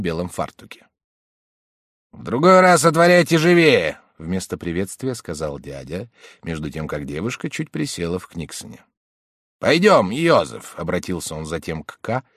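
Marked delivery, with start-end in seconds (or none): 2.1-4.0 high, loud scolding snap. A narrator's reading. Uncle scolding the maid. 9.6-10.7 calling out. A narrator's reading. Uncle calling Josef.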